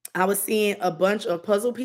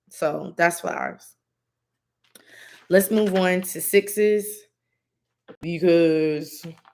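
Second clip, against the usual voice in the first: very slow, drawn-out talking. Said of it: "I'm talking real slow today".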